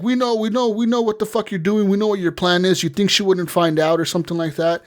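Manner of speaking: high mock accusation, easing down; accusing ninja voice. Ninjas tell V they know the plan, high mocking accusation easing off. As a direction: taunt them up high, then settle back toward normal.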